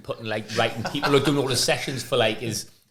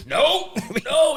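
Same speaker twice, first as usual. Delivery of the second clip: much higher mock refusal; imitated intense refusal; 4 dB louder than usual. Coach refusing beers mid-exercise, imitated high refusal. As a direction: imitate a frantic, high-pitched no. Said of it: "He'd be jumping up and down".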